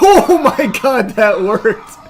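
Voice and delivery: slow, laughing oh my god; laughing amazement. Real, not acted. Gamer laughing as his move works, high and loud. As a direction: laugh in disbelief.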